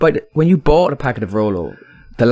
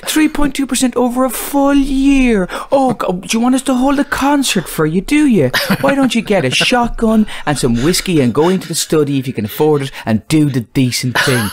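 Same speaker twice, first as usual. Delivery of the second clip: put-on joke Zimbabwean-Venezuelan accent; 9 semitones higher than usual. Zimbabweans and Venezuelans scoffing at British inflation worries, joke accent, mock lament. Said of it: "that was the best Zimbabwean Venezuelan accent".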